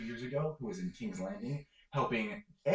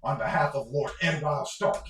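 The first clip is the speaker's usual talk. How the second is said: loud, forceful demand for an audience; demanding yell; 4 semitones higher, 6 dB louder than usual. Acted. Rider yells at the castle door for an audience, demanding yell. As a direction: call out as a rider demanding entry, louder than usual. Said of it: "pounding on the door and yelling".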